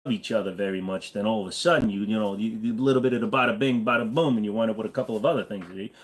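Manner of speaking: put-on lightly done New York mobster accent; a hint of mafioso New York accent. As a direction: talk like a chatty New York wiseguy. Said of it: "New York mafioso".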